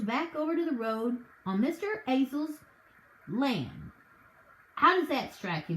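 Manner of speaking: folksy officer smoothing things over; a touch of a country sergeant calming a quarrel; lightly voiced sergeant. Sergeant's character voice.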